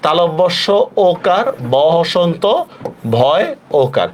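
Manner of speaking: slow, paused dictation of সভ্য as "shob-bho"; dictated spelling. Shown as a demonstration. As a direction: spell it out at writing speed, তালব্য স ওকার first. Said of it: "আমি পুরা লিখে দিচ্ছি".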